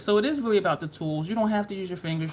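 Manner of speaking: real fast, rushed, rattled-off talk.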